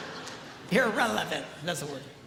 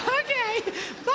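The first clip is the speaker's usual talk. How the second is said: sing-song bye; 11 semitones higher than usual. Retold or imitated. Calling bye to grandkids.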